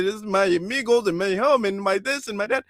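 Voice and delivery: a light imitation of a thick Latino accent; mock Latino accent. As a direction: list them in a put-on Latino accent. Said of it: "they'll roar their R's".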